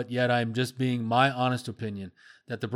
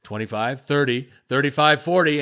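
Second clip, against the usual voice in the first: gradually building up; 5 dB louder than usual. Shown as a demonstration. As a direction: count up, lifting the voice a little with each number. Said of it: "gotta give Buck credit for doing this".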